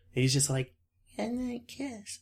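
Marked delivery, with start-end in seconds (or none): 1.2-2.2 put-on hushed, soft, very high little-boy voice. Retelling a scene where a grown man asks for a goodnight kiss: imitating a childish boy voice. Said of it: "and in his boy voice".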